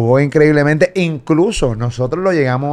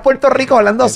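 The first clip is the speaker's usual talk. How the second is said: imitating French accent; 8 semitones higher than usual. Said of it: "Yo de Río Piedra hablando así".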